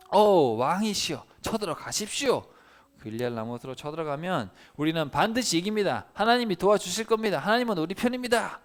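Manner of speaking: high, loud, eager assurance; fawning prophets cheering the king on; eager flattery. Acted. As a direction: pump up the king with confident flattery. Flattering prophets urge war.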